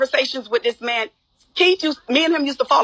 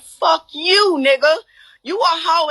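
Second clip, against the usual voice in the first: retold angry cussing-out, pitched higher; aggressive retort; 4 semitones higher, slower than usual. Woman retelling how she cursed him out, aggressive. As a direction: throw the insult out hard and high. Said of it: "shouldn't have been so aggressive".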